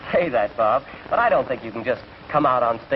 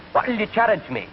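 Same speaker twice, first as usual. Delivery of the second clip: higher-pitched Scotsman; Scottish accent; 6 semitones higher, slower than usual. Acted. Scotsman to train conductor, Scottish accent. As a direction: ask it in a comic Scots voice. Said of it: "Scott looked up at him".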